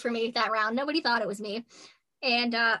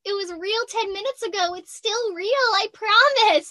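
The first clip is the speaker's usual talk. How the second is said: high, insistent mock plea; higher, drawn-out begging, louder at the end; pleading protest; 9 semitones higher, 4 dB louder than usual. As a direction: convince the guard it's still real. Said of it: "and I was like".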